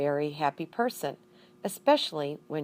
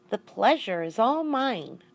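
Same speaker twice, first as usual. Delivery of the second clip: squeaked; 5 semitones higher than usual. Acted. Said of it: "I squeaked".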